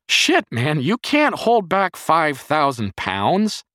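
loud, high-pitched angry scolding; furious yell. A narrator's reading. Jerry scolding the boy by the fallen car, furious yell. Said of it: "he yelled at the boy in fury".

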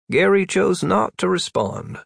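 Gary rising sharply high; exasperated high Gary?; pitched high. Acted. Pointed high rising name.

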